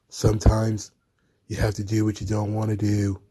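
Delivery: dull, low, soft monotone; Darby Allin. Acted. Wrestler justifying himself to his naive colleague, in a dull voice. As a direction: say it low and lifeless, in a drone. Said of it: "say it in his, uh, dull Darby Allin voice".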